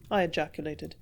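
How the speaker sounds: plain reading voice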